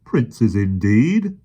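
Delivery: loud, slow scornful outburst; exploding policeman. A narrator's reading. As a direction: burst out in indignation. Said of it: "the policeman exploded".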